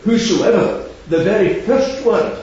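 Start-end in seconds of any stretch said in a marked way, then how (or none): 0.0-0.9 "whosoever" set apart after a pause; stress on whosoever. Shown as a demonstration. Preacher naming Paul's key word, "whosoever" emphasised. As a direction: give "whosoever" its own weight, standing alone. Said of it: "the emphasis is on the word".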